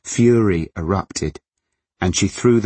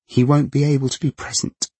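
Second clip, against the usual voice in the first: strained voice rising; 8 semitones higher than usual. A narrator's reading. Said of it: "her voice eliding into a screech".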